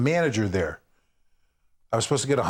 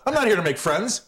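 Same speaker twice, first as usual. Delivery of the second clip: mean comic; 6 semitones higher than usual. Retold or imitated. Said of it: "His shtick was, um, nasty, mean".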